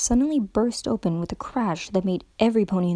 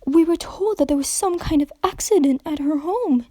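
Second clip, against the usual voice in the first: concerned; 7 semitones higher than usual. A narrator's reading. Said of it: "genuinely concerned".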